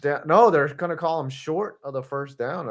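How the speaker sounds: mock broadcast call; play-by-play. Play-by-play commentary.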